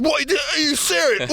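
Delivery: high, slow incredulous question; mock disbelief. Group questions his confession, mock disbelief. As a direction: imitate someone utterly taken aback.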